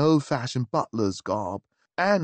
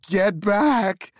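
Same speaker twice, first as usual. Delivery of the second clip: panicked shout, higher and louder; yelled; 8 semitones higher, 5 dB louder than usual. Acted. Frightened Baker yelling at the stranger in the hall. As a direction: bark it out in alarm. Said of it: "he yelled".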